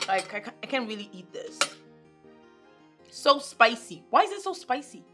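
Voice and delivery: high whining protest; whiny complaint. Acted. Daughter about the rice, high whiny complaint. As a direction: grumble about the spicy rice.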